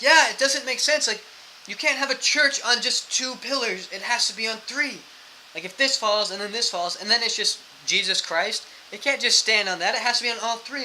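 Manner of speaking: put-on slurry earnest drunk; drunk man voice. Drunk man explaining church pillars.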